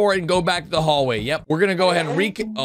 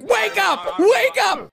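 yelling wake up; 12 semitones higher, much slower than usual. Retold or imitated. Voicing Red yelling at the sleeping crew, a mock yell. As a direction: bark it like an angry boss. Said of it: "Red's like".

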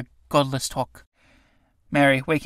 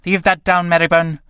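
crying out angrily; 2 semitones higher, 4 dB louder than usual. Acted. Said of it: "crying out angrily".

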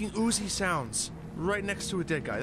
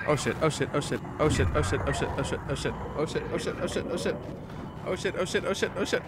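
panicked muttering; 5 semitones lower, faster than usual. Real, not acted. Gamer mutters in terror while sneaking.

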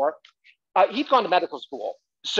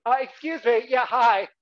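imitating fussy mother; 3 semitones higher than usual. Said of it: "my mother would go out there and go".

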